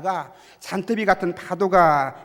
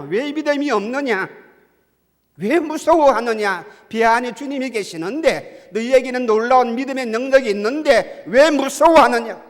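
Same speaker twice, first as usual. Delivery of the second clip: loud, raised-pitch scolding from the pulpit; forceful rebuke; 7 semitones higher, 10 dB louder than usual. Acted. Preacher voices Jesus scolding his disciples, in a forceful rebuke. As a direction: drive each reproach home at high volume. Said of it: "주님이 책망하신 말씀이 무엇입니까".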